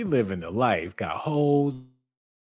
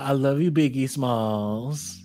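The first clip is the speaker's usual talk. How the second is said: slow impression of a rapper; slower than usual. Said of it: "talking about".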